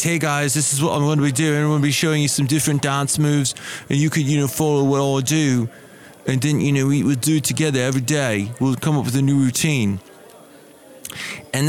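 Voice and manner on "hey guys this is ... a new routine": fast, upbeat camera-host patter; peppy dance instructor. Retold or imitated. Dance video guy greeting viewers, fast and peppy. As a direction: pitch the daily routine like a chirpy fitness vlogger. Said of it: "you see him talking to the camera".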